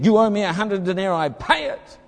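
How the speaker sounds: harsh demand rising to a high, clipped "pay it"; mock creditor demanding his money; demanding payment. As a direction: bark the debt at him. Head servant demands his debt.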